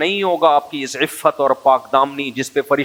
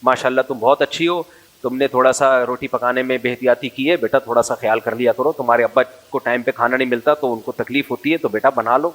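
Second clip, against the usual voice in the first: gentle mother; 3 semitones lower than usual. Retold or imitated. Mother gently corrects her daughter's cooking, mild tender coaxing. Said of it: "بلکہ بیٹی سے ایسے بات کرتی ہو".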